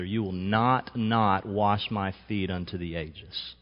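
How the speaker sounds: slowed down, weight on not; preacher slowing Peter's stubborn vow; slow emphatic refusal. Acted. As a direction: drag out each word of the refusal. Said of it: "Two different negative words".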